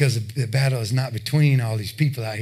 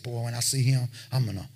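mock angry threat; 4 semitones lower, 7 dB quieter than usual. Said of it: "He said".

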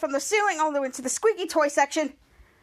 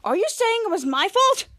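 raised, offended question; indignant retort; 5 semitones higher, 3 dB louder than usual. Retold or imitated. Dirk accused by the employee, indignant. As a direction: throw the accusation back, pitched up.

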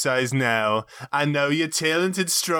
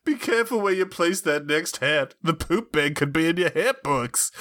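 put-on drunk Bob's Burgers wife; 2 semitones higher than usual. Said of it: "you sounded like an extremely drunk person trying to do an impersonation".

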